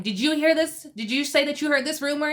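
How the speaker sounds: lightly acted indignant questioning; retold flipping out. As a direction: demand it like someone flipping out, held back. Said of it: "Marge flips out".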